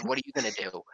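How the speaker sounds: mock a woman who is chasing him; taunting challenge. Taunting her as she runs after him, pitched high. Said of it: "and I said".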